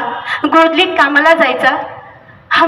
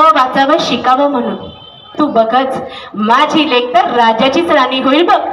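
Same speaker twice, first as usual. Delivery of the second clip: lower, proud determined father; insisting his daughter will learn; father's voice; 3 semitones lower than usual. Acted. Father declaring to Rakhma that Rami will study, lower, proud.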